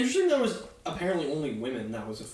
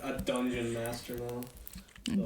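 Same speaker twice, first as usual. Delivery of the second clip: laughing; 3 semitones lower, 3 dB quieter, much slower than usual. Real, not acted. Laughing at himself.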